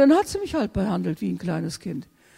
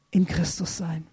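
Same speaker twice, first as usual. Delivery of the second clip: soft whispered close; 5 semitones lower, 5 dB quieter than usual. Real, not acted. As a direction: let it fall into a whisper. Soft ending of prayer.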